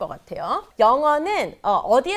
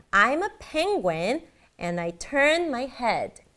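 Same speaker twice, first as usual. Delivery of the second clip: very slow, PENguin, TURN, HEAD stressed, rest glided over. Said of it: "요런 단어들을 강조하면 요렇게 들리게 돼요".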